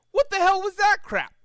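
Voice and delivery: high, loud jeering shout; mocking yell. Pigeon jeering at Rainbow Dash's missed shot, loud high yell. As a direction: jeer at the bad throw. Bird taunting Dash.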